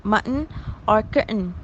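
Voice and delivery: "mutton" and "curtain" with T and glottal stop made together; glottalized stop. Shown as a demonstration. Lecturer giving examples of glottalized stops, glottalized T. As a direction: close the throat on the T in "mutton" and "curtain". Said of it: "the stop and the glottal stop are produced".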